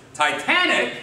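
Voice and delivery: high-pitched baffled one-word question; incredulous echo. Acted. Jewish guy looks at him and says, incredulous. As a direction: repeat it in sheer disbelief. Joke figure repeats in disbelief.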